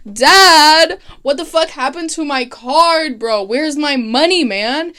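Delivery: mock whiny shout at dad, then settling; bratty demand. Son demanding his money from his dad, mock loud whine. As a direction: yell it like a spoiled rich kid.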